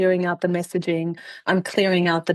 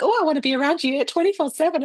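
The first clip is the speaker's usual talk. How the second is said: higher, fast, gushing needy lover; lightly hammed-up eager boyfriend; mock clingy husband; 9 semitones higher, faster than usual. Imitating her anxiously attached husband, mock clingy.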